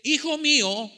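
solemn divine admonition; voice of God. Acted. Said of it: "Y Dios dice".

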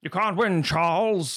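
swooping luvvie voice; theatrical actor. Acted. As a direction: declaim it like a grand thespian. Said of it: "They do an impression".

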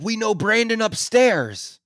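high-pitched mock pleading; retold desperate appeal. Digger name-drops to calm the neighbour, retold pleading. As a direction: offer it as a desperate excuse.

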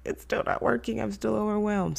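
high-pitched retold complaint; overwhelmed complaint. Retelling her overwhelmed complaint.

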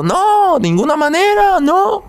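husband protesting from inside, high yell; man yelling back. Acted. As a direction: refuse at the top of your voice.

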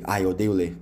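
low, sulky "odeio" with a sigh-like "Ai"; lightly voiced whiny grump; whiny mock complaint. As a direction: imitate a bored, grumpy hater. Mocking a person who hates reading.

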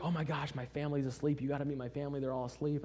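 high-pitched, excited babble; mildly frantic retold excitement; freaking out. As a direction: imitate someone overwhelmed and urgent. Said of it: "he's, like, freaking out".

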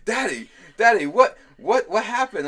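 put-on high, eager little girl; lightly voiced excited daughter; excited child voice. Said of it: "she was like".

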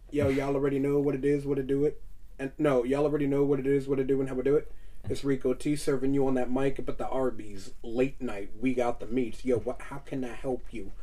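a touch of hype-man announcer; mock radio-DJ greeting at the drive-thru; playful drive-thru mic voice. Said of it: "so I'd be like".

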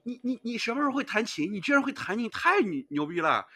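high, excited gasp of surprise; wow, act astonished at the piano; amazed friend. Retold or imitated. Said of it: "我一个同学来我家，一进门儿".

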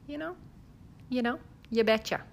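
friendly Minnesota "You betcha"; chirpy Midwestern accent; Cheryl Lipinski accent. Pretend. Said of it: "that Cheryl Lipinski accent".

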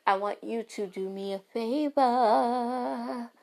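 slow drawn-out Brooklyn accent. Real, not acted. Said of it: "My Brooklyn accent coming back".

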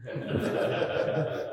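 breathy laugh after the punchline; brief amused laughter; chuckle. Real, not acted. Teacher laughs at his own joke, chuckling.

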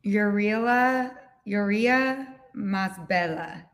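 name said in a light Spanish-style accent; slipping into an accent. Real, not acted. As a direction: roll the name out slowly in an accent. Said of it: "I just changed my accent".

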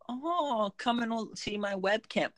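high, slow, teasing come-on voice; mock fake-profile come-on. Host mocking fake Facebook profiles with a high, slow, sultry come-on. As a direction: purr it like a spam webcam bot. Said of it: "The fake profiles out of me".

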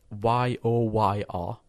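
slow letter-by-letter spelling; spelled out. Shown as a demonstration. Showing friends his sister's misspelling, slowly spelled out. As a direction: spell it out one letter at a time. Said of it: "She put, uh, your as".

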